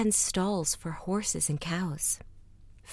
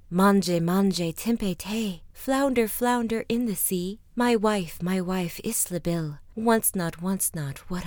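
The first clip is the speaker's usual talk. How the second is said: calling out; slower than usual. Acted. Man stands at the grey sea summoning the flounder, calling out. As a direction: summon with a rhythmic, called-out rhyme.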